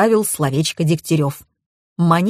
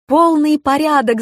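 yelling; 9 semitones higher than usual. A narrator's reading. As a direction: bellow the good news. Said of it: "заорала Маша". (громко, высоко, с торжеством)

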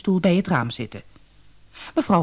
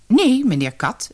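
high, loud, mocking old lady; a crafty dame laughing at the idea; haughty old weasel; 6 semitones higher, 3 dB louder than usual. A narrator's reading. Weasel tells the rabbit the house is hers, high and mocking.

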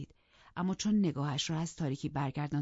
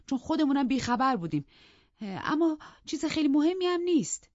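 lightly voiced anxious housekeeper; a hint of a flustered maid; servant explaining; 4 semitones higher, 4 dB louder than usual. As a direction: nervously justify yourself to the master. Narrator voices Nelly the servant.

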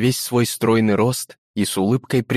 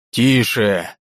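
властный окрик судьи; громко оборвать шум в зале; прогреметь. Acted. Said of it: "прогремел голос председателя". (председатель велит замолчать, громко)

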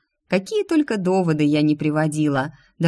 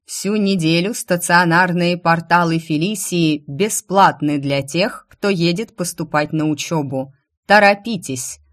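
ringing, louder herald's announcement; fiery speech; 3 dB louder than usual. Acted. King's herald addressing the crowd, fiery proclamation. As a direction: call it out to the crowd with fervour. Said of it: "продолжал свою пламенную речь".

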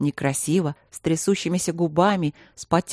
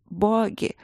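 moan half laugh half sob; 4 semitones higher than usual. Acted. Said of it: "простонала она сквозь то ли смех, то ли рыдание".

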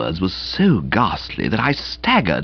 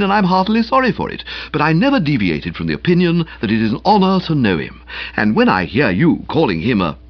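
reproving speech. Pretend. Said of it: "in a quiet, reproving voice".

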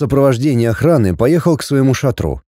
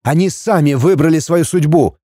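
higher-pitched, grandiose proclamation; pompous exclamation; 4 semitones higher than usual. A narrator's reading. Prince pronouncing the town's fate, pompously. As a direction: declaim it with mock-heroic pathos. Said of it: "пафосно воскликнул".

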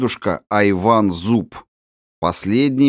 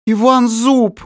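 much higher and louder, a shrieking cry of the name; terrified shriek; 12 semitones higher, 5 dB louder, slower than usual. Acted. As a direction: scream his name in horror. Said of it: "воскликнула она не своим голосом".

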